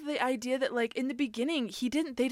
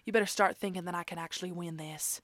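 quick Southern-accented impression, trailing lower; imitating Southern actress; 3 semitones lower, 4 dB quieter, much faster than usual. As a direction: mimic her predictable Southern cadence, dropping away at the end. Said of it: "That sounded exactly like her".

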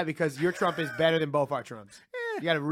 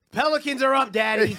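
put-on baby voice to dad; 4 semitones higher, 4 dB louder than usual. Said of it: "I can just imagine you like".

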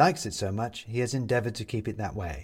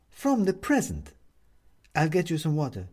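worried neighbour woman; 7 semitones higher than usual. A narrator's reading. Upstairs neighbour finding him on the floor, worried.

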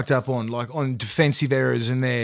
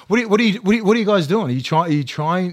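higher, louder, baffled demand at the team; exasperated outburst; 4 semitones higher, 4 dB louder, faster than usual. Retold or imitated. Pundit venting at his old team, exasperated and louder. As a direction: throw the question at them in disbelief. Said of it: "I'm like".

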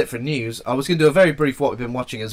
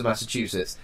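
put-on Boston accent; 2 semitones lower, 5 dB quieter than usual. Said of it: "Doing a Boston accent as well".

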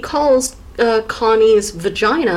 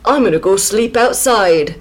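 loosely Northern English, half-hearted; a grab bag of British accents, lightly done; vague British accent. Retold or imitated. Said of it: "Don't know what accent that was".

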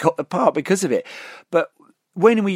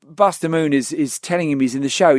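ordinary delivery

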